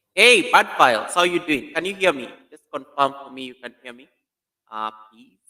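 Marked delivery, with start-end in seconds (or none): 0.1-1.7 loud, slow, sing-song hello to a viewer; excited greeting. Real, not acted. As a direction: call out the welcome, stretching it.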